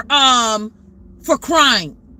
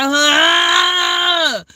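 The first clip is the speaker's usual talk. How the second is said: crying wail; 2 semitones higher than usual. Shown as a demonstration. Urging women to cry aloud, demonstrating a long wail. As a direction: let out a sustained, open crying wail. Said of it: "even if you gotta cry".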